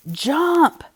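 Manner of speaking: a high, loud one-word roar; high loud command. Acted. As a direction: bark the order like a captain in a storm. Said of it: "roared Earl".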